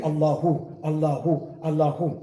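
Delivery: lightly chanted Allahu, drawn out; a hint of imitating an odd chant; mock strange dhikr. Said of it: "He might start doing strange dhikr".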